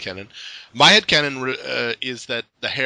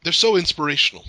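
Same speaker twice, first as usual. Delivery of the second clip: louder, over-emphatic praise that could pass for sarcasm; sarcastic-sounding; 3 semitones higher, 5 dB louder than usual. Real, not acted. Fan praising a pony's faceplants, sincere but sarcastic-sounding. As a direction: gush it emphatically, as if half mocking. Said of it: "That sounded sarcastic".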